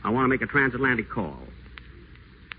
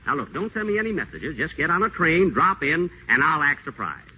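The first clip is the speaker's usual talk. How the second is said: gushing charm; 4 semitones higher than usual. Acted. Whiteside sweet-talks Lorraine on phone.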